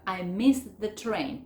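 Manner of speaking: MISS THE TRAIN linked slowly, no past T; slow demo, MISS ending on S; T dropped in MISS. Shown as a demonstration. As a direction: run MISS straight into THE, no T. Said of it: "También voy a sacar la T".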